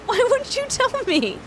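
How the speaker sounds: high, laughing why wouldn't you tell me; laughing protest. Real, not acted. Streamer to mod who laughed, laughing protest. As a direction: laugh through the complaint. Chat laughing at her mistake.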